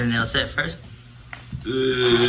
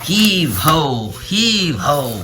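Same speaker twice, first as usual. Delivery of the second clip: straining hard; 5 semitones higher, much slower than usual. Real, not acted. Pulling together, chanting.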